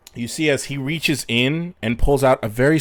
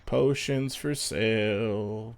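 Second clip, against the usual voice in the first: slow, bored street vendor call; gruff proud merchant pitch; 4 dB quieter, slower than usual. Acted. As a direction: drawl the sales pitch without enthusiasm. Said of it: "He doesn't sound very excited to be here".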